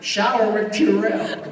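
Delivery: countrified impression, stretched for the laugh; Pat Buttram.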